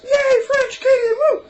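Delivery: high, loud, slow hammed-up cheer; sarcastic squealing celebration; mock cheering. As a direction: play a giddy flag-waver. Mocking Acadian flag enthusiasts.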